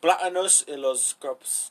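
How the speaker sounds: slow, botched British accent in Spanish; British-accented Spanish, French-ish. Shown as a demonstration. Testing a British accent in Spanish, slow French-ish attempt. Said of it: "that sounds more like kind of French-ish".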